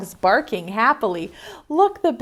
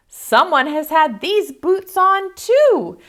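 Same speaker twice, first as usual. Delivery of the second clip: higher, a touch of a huff; huffy mama bear; 8 semitones higher, 4 dB louder than usual. Acted. Mama Bear checking her fancy boots, higher huff. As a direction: huff it out like an annoyed mother. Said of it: "she huffed".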